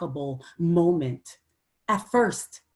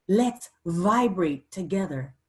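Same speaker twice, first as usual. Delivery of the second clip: normal talking voice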